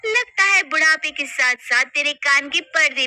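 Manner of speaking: put-on sharp, contemptuous scolding of the old woman; rude scolding. Daughter-in-law scolding mother-in-law for tea, rudely.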